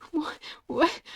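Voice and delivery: whispered what. Real, not acted. Player whispering in disbelief to himself. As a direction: hush it in shock.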